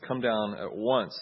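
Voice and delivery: slow, firm "Come down at once"; firm order. Shown as a demonstration. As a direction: lay down the order slowly. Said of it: "the second one says".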